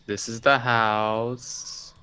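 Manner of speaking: drawn-out pointing. Real, not acted. Showing a crude drawing, drawn out.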